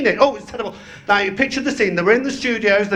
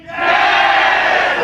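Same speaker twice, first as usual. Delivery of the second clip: mock Del Monte man; 3 dB louder than usual. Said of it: "the man from Del Monte, he say".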